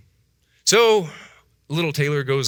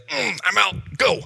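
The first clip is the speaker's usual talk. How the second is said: sassy brush-off; 10 semitones higher, slower than usual. Retold or imitated. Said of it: "I was like".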